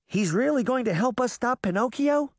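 high, doubting question; high-voiced scepticism; incredulous question. A narrator's reading. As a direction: ask it high, in disbelief. Sceptical girl questions Puck.

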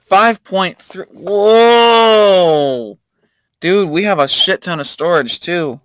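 high, loud amazed outburst; amazed whoa. Real, not acted. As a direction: gasp at the huge number. Sees huge storage amount.

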